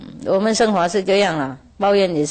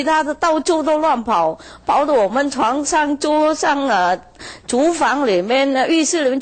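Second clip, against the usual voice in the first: higher whining farmer voice listing the mess; complaining farmer; 3 semitones higher than usual. Retold or imitated. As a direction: pile up the complaints in a raised voice. (农夫向师父诉苦，高声抱怨)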